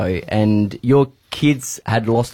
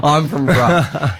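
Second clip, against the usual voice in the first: mock French accent done badly on purpose; 5 semitones higher, much slower than usual. Retelling the Frenchman in the hot spring, mock French accent. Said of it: "he had a French accent".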